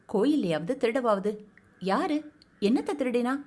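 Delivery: a stunned wife demanding who stole what; shocked disbelief. Acted. Pattu shocked by theft claim.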